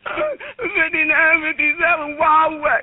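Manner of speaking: real tearful sobbing through the address; crying. Real, not acted. Panicked caller gives the dispatcher her address, crying. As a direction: choke the words out between sobs. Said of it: "stop crying".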